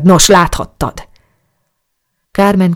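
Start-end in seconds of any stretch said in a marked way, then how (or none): 0.0-1.1 loud bitter retort; mild hammed-up shout of hurt pride; angry outburst. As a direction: hurl it at her. Angry climax of quarrel.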